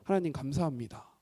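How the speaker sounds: low, soft acted thanks; quietly surrender in gratitude; tearful confession retold. Preacher reliving his confession before the cross, soft low gratitude. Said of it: "이러한 고백을 하게 되더라고요".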